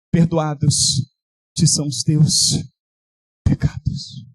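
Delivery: low, slow, softened words of absolution; solemn pardon. Acted. Preacher voicing the seraph forgiving Isaiah. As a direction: pronounce forgiveness gently. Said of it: "e diz".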